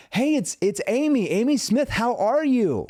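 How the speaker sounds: high, loud, breezy friendly greeting; bright, casual phone hello; familiar tone. Shown as a demonstration. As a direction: greet them like an old friend. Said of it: "I have to use a familiar tone".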